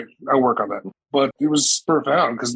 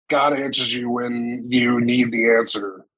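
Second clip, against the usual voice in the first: mocking; slower than usual. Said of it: "mocking that is".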